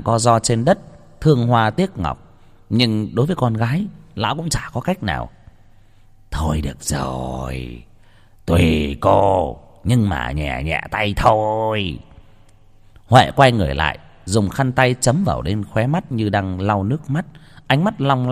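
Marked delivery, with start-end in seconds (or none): 6.3-12.0 reluctant giving in. A narrator's reading. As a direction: give in wearily to the daughter. Cha miễn cưỡng chiều con. (giọng trầm, chậm, miễn cưỡng đồng ý)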